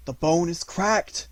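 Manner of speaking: slow loud boom; thundering. A narrator's reading. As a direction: thunder it to the pack. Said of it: "thundered Phao".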